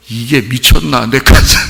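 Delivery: loud mock outrage; indignant husband. Husband whose chest is pounded, mock-indignant outburst. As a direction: play a husband affronted at being hit. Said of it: "그거를 만약에 모르고 남편이".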